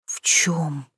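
barely voiced, caught off guard; a lost, breathless whisper; confused daughter whispering back; bewildered whisper. A narrator's reading. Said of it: "растерялась я".

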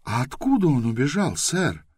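politely curious, lifted high at the end; polite question. A narrator's reading. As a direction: ask sweetly and politely. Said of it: "вежливо поинтересовалась Байта".

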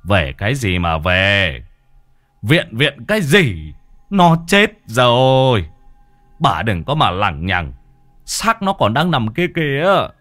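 loud, slow angry rebuke; husband shouting down his grieving wife, angry; scolding shout. A narrator's reading. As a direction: bark at the wife to stop this nonsense. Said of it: "đang quát tháo bà Thục".

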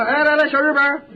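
high, quick Shandong-style call; mimicked Shandong greeting; Shandong butcher. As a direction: copy a Shandong shopkeeper hailing a boy. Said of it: "张大说嘛".

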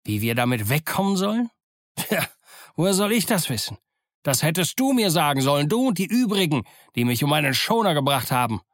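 indignant pirate leader, pitch climbing; lightly voiced, scornful ship's cook; indignant Silver. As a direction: throw the blame back at the accuser. Silver berates George.

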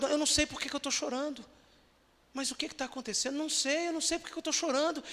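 imitating a confused crying visitor; preacher voicing a weeping stranger, high and rushed; retold crying stranger.

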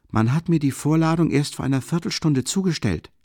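loud, high retort; answering loudly. A narrator's reading. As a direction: snap back over your shoulder. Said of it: "antwortete laut".

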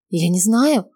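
agitated cry. Acted. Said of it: "взволнованно вопит она".

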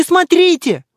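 high, loud thrilled cry; excited girl's cry. Acted. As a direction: shout with giddy excitement. Девчонки возбуждённо кричат. (высокий громкий восторженный крик)

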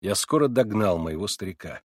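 ordinary delivery, nothing marked

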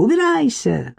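high angry "Убирайся!". Acted. Irka ordering Marik away, high angry cry.

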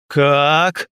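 a loud startled bark; roar. A narrator's reading. Vitman leaps up and roars at the prisoner. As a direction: roar the question, jumping up. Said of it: "взревел, вскочив, Витман".

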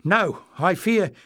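high, halting, loud worry; anxious stammer. A narrator's reading. Azan brings bad news, anxiously stammering. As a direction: falter and restart in alarm. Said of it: "he stammered".

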